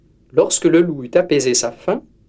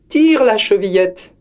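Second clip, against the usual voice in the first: put-on higher old woman, calling; frail grandmother; 6 semitones higher, 3 dB louder than usual. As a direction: call it weakly from the bed. Grandmother answers.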